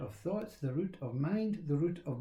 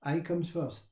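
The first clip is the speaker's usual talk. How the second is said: ordinary talk, nothing marked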